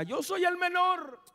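Gideon's lament. Acted.

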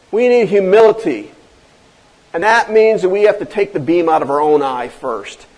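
ordinary talk, nothing marked

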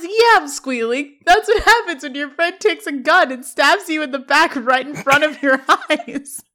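hammed-up betrayed outburst; mock yell. Sean yelling at Corey for stabbing him in the back, a mild mock yell. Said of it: "And Sean yells".

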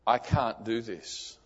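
slow, soft and heavy, barely holding it together; a hushed, pained no to his father; quiet tearful refusal. Retold or imitated. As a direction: say it like it breaks your heart. Son refusing devout father, tearful.

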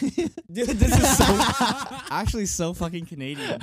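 high-pitched words through laughter; cracking up. Real, not acted. Friend cracking up at the moose behind them, laughing hard. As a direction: laugh helplessly while talking.

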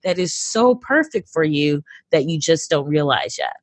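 lightly acted exasperated universe; the universe scolding. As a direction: scold lightly as the universe, stretching the first words. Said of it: "it's sort of the universe being like".

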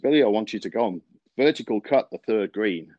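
put-on a second try at the old Southern superintendent's drawl. Superintendent telling Billy to verticut the green, in southern drawl. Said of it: "it has to be said really in a southern drawl".

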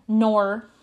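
"nor" slipping into Australian; accidental Australian accent. Real, not acted. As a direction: let an Australian twang slip on "nor". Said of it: "my God, that was Australian".

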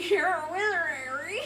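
laughing quote. Retold or imitated. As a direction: giggle the quote back. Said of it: "can we go back to the".

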